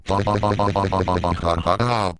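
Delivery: stiff, synthetic string of ha-ha-ha; mechanical villain laugh. Acted. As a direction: read out the villain's laughter like a machine. Eggman laughs while watching events.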